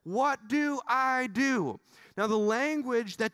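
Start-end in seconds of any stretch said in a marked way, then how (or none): 0.0-1.8 a hint of tempted David. Preacher voicing David at his crossroads, lightly acted. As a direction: muse like a tempted king. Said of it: "where he's gonna go".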